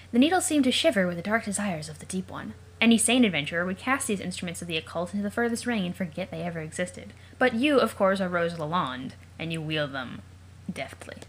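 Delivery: ominous storybook read of game text; dramatic narration. Acted. Gamer reading the game text dramatically to viewers. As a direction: read it like a dark tale.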